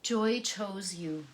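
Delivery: loud and slow, each word weighed; poetry reading start, slow and loud; slow, loud poem opening. Shown as a demonstration. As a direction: open the poem like a proclamation. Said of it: "This poem is by a Scottish poet".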